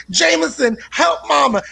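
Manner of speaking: high pleading mom voice; mock pleading mother; whiny mother plea. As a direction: beg the kid for help, high and strained. Mother pleading with son in story.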